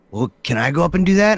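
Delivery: a hint of a curious kid tugging at dad; mild kid voice asking about people in line; small boy's voice. Dad voicing his small son.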